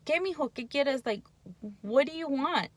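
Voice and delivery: put-on gentle, patient question to the child; calm patient ask. Mom calmly asking her son what he wants, gentle. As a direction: ask kindly what he needs. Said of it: "But if we stop and think".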